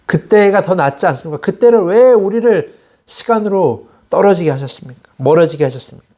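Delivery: mild mock grievance; resentful complaint. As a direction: act out a people blaming their leader. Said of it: "이렇게 모세를 원망하고 있던 겁니다".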